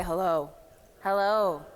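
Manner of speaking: low chest-voice hello. Shown as a demonstration. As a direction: drop it down into the chest. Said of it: "Now come into your chest voice and say".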